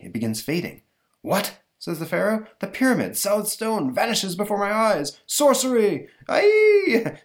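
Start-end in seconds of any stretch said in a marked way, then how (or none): 1.2-5.2 high, loud astonished cry; hammed-up disbelief at vanishing stone; mock-stunned tyrant; shocked pharaoh. Pharaoh sees pyramid vanish. 5.2-7.2 very high, loud hammed-up scream; mock horror at sorcery; cartoon villain yelp; terrified shriek. Pharaoh shrieks at magic.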